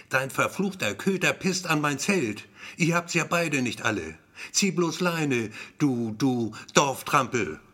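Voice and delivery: mock furious yell, slowing at the end. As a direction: rant at her, stretching the final insult. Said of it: "brüllt wie am Spieß, heult fast vor Wut". (gespielte Wutrede, am Ende gedehnt)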